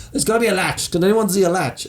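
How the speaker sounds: searching in a squeaky panic; high frantic quote. Retold or imitated.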